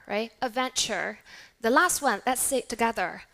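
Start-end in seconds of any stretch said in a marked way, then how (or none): 0.4-1.2 "Adventure" with a clear final "er"; American rhotic R. Shown as a demonstration. Teacher repeats for class, American R. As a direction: sound the R closing "Adventure". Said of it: "In American English".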